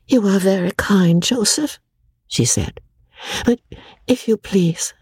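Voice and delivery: faint whispered thanks; too weak to speak aloud. A narrator's reading. Amelia refuses Joseph's soup in a weak whisper.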